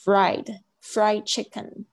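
slow fried chicken, R sounded; fried with a careful English R; clear R in fried. Shown as a demonstration. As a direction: model the R in fried, never L. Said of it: "你一把R的声音念成L的声音".

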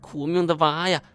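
high, sobbing mother's cry; wailing lament. A narrator's reading. Mother collapsed over missing son, theatrical wailing. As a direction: lament in a high, hammed-up weep. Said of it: "瘫坐在地上是哭天喊地".

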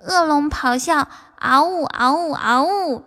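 slow, playful cute roar. Shown as a demonstration. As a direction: roar like a cute little dragon. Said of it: "就这么萌的说".

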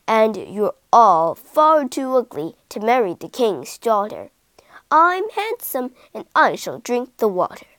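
preen and look down on them; vain leopard. Acted.

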